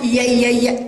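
short repeated "ya" for ي, no stretching; pronounced yaa. Shown as a demonstration. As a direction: tap out ي as quick separate syllables. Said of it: "أما الياء الأخرى فتنطق". (نطق ي قصيرة مكررة دون مدّ)

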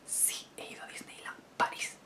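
barely audible whisper; whispered confession. Pretend. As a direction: whisper it like a guilty secret. Confesión cómica en voz bajísima. (susurro casi inaudible)

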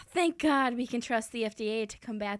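mock-sincere sarcasm; sarcastic. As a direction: praise it with a sneer. Sarcastic anchor remark.

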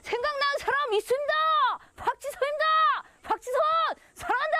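하늘에 외치듯 사랑한다; shouted declaration. Real, not acted. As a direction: call it out across the valley. Shouting love across valley.

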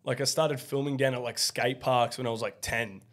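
hoarse, worn-out voice; raspy voice. Real, not acted. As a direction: talk through a lost voice. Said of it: "my voice sounds so raspy".

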